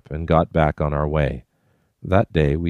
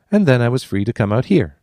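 breezily; 7 semitones higher, 4 dB louder than usual. A narrator's reading. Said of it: "she finished breezily".

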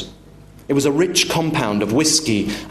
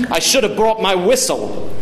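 high-pitched sarcastic jibe; mocking father; 8 semitones higher, 3 dB louder than usual. Father mocks the waiter, overbearing. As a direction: needle the waiter.

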